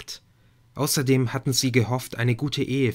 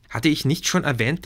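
ordinary delivery, nothing marked

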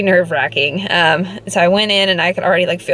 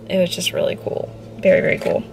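awed whisper; 4 dB quieter, faster than usual. Real, not acted. Awed about the 3D scan.

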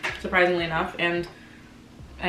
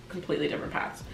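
much softer, trailing repeat; fading echo; 3 semitones lower, 9 dB quieter, faster than usual. Real, not acted. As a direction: let it fade away sadly.

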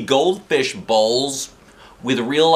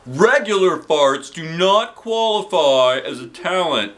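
firm; 7 semitones higher, 5 dB louder, slower than usual. A narrator's reading.

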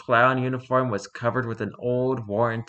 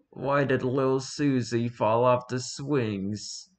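deadpan sad clown; much slower than usual. Acted. Sad clown tells dark joke.

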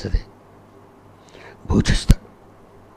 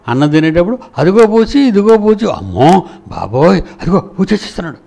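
higher, louder mock fright to scare a child; mock bogeyman scare; 4 semitones higher, 3 dB louder than usual. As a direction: pretend the bogeyman is coming, playfully alarmed. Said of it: "అనగానే మనం ఆ భయపడిపోయి". (పిల్లని భయపెట్టే తల్లి, కాస్త అతిగా)

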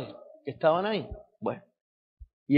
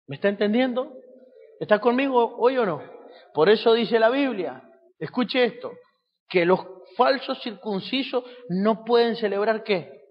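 preaching; 6 semitones higher, 3 dB louder than usual. Real, not acted. Preacher presses congregation with scripture.

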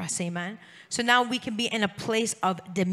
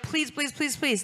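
lighter, higher pleading please please; whimpering plea; 5 semitones higher than usual. Retold or imitated. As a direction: plead like cornered demons. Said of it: "they were like".

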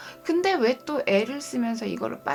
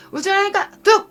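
put-on loud, high shout at a crying child; mother yelling at the crying child to hush; angry mother's shout; 9 semitones higher, 13 dB louder than usual. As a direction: snap at the child to stop crying. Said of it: "엄마가 막 화내서".

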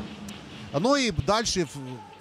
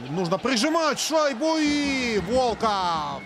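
excited; 4 semitones higher, slower than usual. Real, not acted. Live hockey play-by-play rush.

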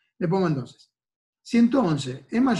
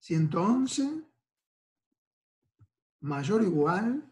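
slow dictation; 3 semitones higher, slower than usual. Shown as a demonstration. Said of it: "voy a poner".

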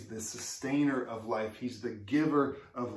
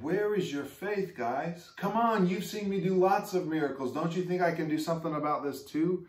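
higher, chiding mock rebuke; mild mock scolding; 6 semitones higher than usual. Imagined Jesus scolding mourners' faith, mock chiding. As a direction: chide them for lacking faith. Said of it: "scold them saying".

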